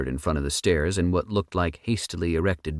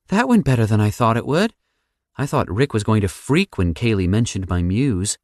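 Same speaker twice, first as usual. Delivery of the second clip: Sam voice; 5 semitones higher, 5 dB louder than usual. A narrator's reading.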